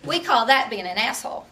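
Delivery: slow, deliberate, spelled-out delivery; very slowly. Retold or imitated. Mom lectures the opponent very slowly. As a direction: lay each word out as if he can't follow. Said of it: "speaking very slowly so he could understand".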